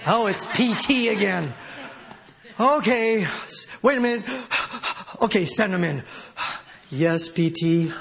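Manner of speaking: mock weary, resigned acted voice; imitating a put-upon boss receiving a nuisance; reluctantly putting up with someone. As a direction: play grudging tolerance, with long pauses. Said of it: "not just putting up with us".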